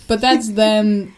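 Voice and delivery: emo song. Real, not acted. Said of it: "You sound like an emo song".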